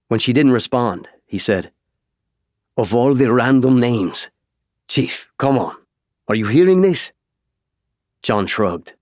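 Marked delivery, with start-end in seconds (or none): 2.8-7.1 exasperated disbelief. Acted. Esparza exasperated, incredulous.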